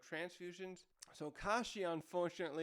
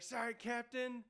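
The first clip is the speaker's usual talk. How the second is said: high, slow sheepish reply; drawn-out, higher-pitched playful sorry; mock apology; 7 semitones higher than usual. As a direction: imitate an underling apologising to the boss. Other guy apologises to his captain.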